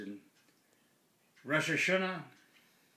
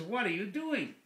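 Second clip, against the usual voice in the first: lightly voiced, higher-pitched parrot; curious parrot; 6 semitones higher than usual. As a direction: ask like an inquisitive bird. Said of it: "And the bird says".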